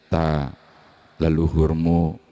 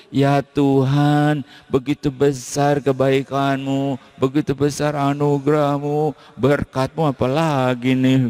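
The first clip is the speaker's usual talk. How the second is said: grateful prayer; 7 semitones higher than usual. Pretend. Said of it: "nangis karena mengucap syukur".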